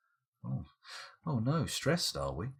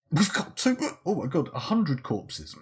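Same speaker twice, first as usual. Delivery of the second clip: surprised; 6 semitones higher, 4 dB louder than usual. Real, not acted. Sudden pile of corpses found.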